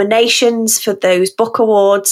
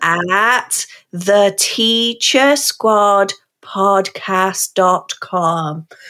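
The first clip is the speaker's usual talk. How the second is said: very slow, drawn-out, each word laid out. Giving listeners the podcast's web address, said really slowly. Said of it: "let's just say it really slowly".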